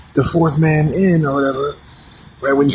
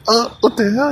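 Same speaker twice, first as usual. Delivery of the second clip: shocked mom; 10 semitones higher than usual. Retold or imitated.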